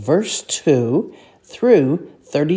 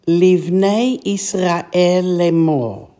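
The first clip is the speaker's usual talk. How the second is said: slow reading; slower than usual. Shown as a demonstration. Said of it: "next phrase".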